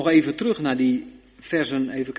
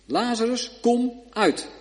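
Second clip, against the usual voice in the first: higher commanding call; gebiedende roep; 8 semitones higher, slower than usual. Acted. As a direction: summon him with authority. Jezus' bevel herhaald. (hoge, gebiedende roep naar Lazarus)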